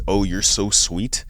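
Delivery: put-on slow, sugary girl reply drawn out; slow drawn-out imitation. A guy mocking a girl's polite brush-off, slow and drawn out. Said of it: "When a girl says".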